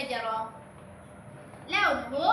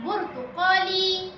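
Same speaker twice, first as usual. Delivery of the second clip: slow model word; 3 semitones higher than usual. Shown as a demonstration. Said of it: "انطقوا معي".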